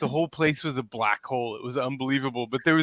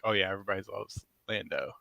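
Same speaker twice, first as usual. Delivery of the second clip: quiet aside; 6 semitones lower, 10 dB quieter, faster than usual. Retold or imitated. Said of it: "And they're like".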